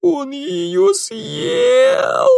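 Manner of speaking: very high, very slow howling wail. A narrator's reading. Girl howling that the bear ate her friend, very high and slow. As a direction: wail it out in grief. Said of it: "и она завыла".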